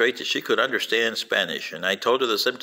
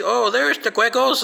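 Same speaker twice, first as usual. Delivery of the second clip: imitated excitement; 10 semitones higher, 3 dB louder than usual. Voicing her pointing them out.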